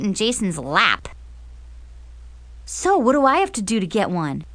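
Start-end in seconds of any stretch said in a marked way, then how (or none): 2.7-4.4 put-on quick, eager boy's question; excited. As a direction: rush it out eagerly. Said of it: "Jason asked excitedly".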